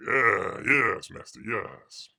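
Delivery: hunchback assistant. Acted. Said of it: "you don't wanna look like Igor".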